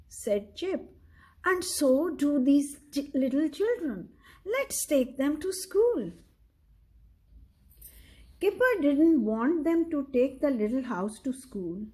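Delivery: steady read-aloud storytelling voice; story narration. A narrator's reading. Parent reading a picture book to a child, measured storyteller. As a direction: read the story clearly to a young listener.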